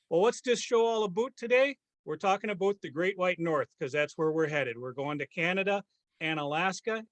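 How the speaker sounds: playful Canadian hoser host; lightly hammed-up Canadian accent; mock Canadian accent. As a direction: put on Canadian vowels and lilt. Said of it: "keep up this accent. I'm glad that you can".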